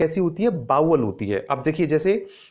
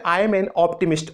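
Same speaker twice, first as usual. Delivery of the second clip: slow example; much slower than usual. Shown as a demonstration. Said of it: "ऐसे देखिए एक example है".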